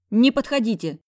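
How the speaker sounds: high, loud panicked plea; frightened cry. Acted. Cornered heroine shrieks at approaching boss. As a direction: keep him away, scared.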